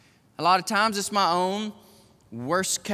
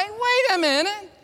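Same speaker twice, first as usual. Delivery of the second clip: firm refusal; 8 semitones higher, 3 dB louder than usual. Retold or imitated. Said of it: "or I can say".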